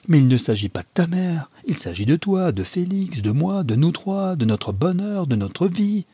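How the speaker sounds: impassioned plea. Acted. Wife pleading passionately with husband.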